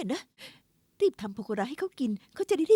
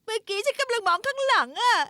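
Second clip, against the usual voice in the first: startled excuse; 8 semitones higher, 5 dB louder than usual. Acted. Bumping into pillar, flustered excuse.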